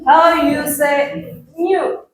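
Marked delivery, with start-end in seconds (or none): 1.5-2.1 "new" said slowly as "nyoo"; pronunciation model. Shown as a demonstration. Teacher modelling a word for pupils, "new" as "nyoo". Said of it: "Terus untuk pronunciation-nya".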